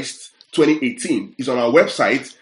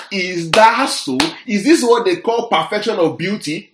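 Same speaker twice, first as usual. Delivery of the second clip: sarcastic; 6 semitones higher than usual. Acted. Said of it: "That's sarcasm".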